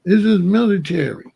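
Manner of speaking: military bark. Shown as a demonstration. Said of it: "I was talking like this".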